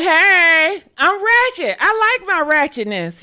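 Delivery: high, loud, unrestrained shout; loud ratchet self. Shown as a demonstration. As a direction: let it rip, loud and proud. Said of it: "I'd rather be like".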